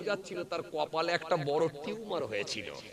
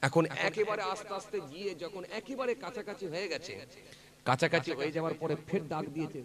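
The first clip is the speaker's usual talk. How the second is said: usual speaking voice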